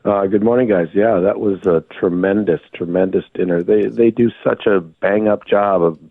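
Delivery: hoarse, voice nearly gone. Real, not acted. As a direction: talk through a lost voice. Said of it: "You sound like a guy who lost his voice".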